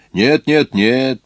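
громкое, высокое «нет, нет, нет»; отмахивается, выше и громче; горячий отказ. Acted. Крестьянин горячо отнекивается. (горячо отказывается, громче и выше)

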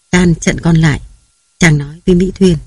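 plain reading voice

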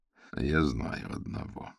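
slow, soft mutter; low mumble, half to himself. Acted. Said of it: "пробормотал он".

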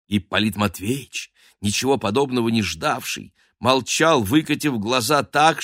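plain reading voice

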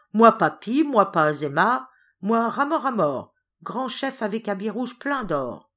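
loud and high, offended servant; indignant outburst. Acted. Ram, mocked by the governess, protests loudly and angrily. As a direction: bristle and shout your own name proudly. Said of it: "Ram se fâchant".

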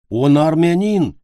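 high, loud, drawn-out protest; offended. A narrator's reading. Boy defends his favourite singer before backing off, offended. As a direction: protest with hurt pride, stretched out. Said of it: "обиделся Папик и отстал".

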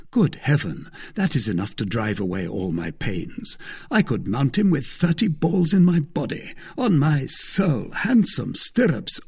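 lightly voiced delighted Aramis. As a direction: exclaim with a touch of delight.

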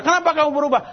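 put-on startled mother asking where her child studies, high and amazed; surprised parent. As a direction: ask it high, astonished at the change. Surprised parent questions changed child.

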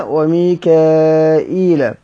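وميكائيل very slowly, syllable by syllable; reading demo. Shown as a demonstration. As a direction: stretch وميكائيل out. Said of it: "هيقرأ جبرائيل".

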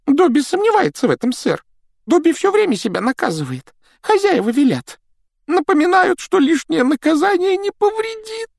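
a small timid house elf; christmas elf. Acted. Домовик Добби говорит. (писклявый голос эльфа)

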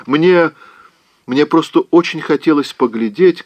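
put-on a coaxing girl wheedling her aunt; pleading young Scarlett. Scarlett begs her aunt not to cry, coaxing.

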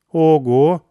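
loud startled exclamation; surprised. A narrator's reading. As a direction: jolt of surprise. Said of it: "удивилась Ольга".

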